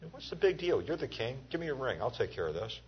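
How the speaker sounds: lightly voiced Jezebel mocking the pouting king; scoffing queen. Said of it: "Jezebel came in and said".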